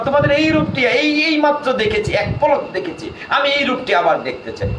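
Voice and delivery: a devotee begging to see the form again; Narada's pleading. Retold or imitated. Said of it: "Narad বলছে, না প্রভু". (নারদের ব্যাকুল অনুনয়, উঁচু স্বরে)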